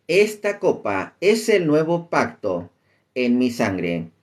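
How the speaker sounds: slow, deliberate Bible reading; scripture reading. Acted. Teacher reading Lucas to listeners, slow scripture reading. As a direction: read the verse out slowly with drawn-out phrases.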